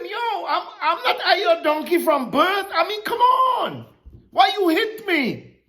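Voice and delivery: a lightly voiced, laughing donkey protesting; donkey complaining to its master, amused; talking donkey. Donkey pleading with Balaam, half laughing.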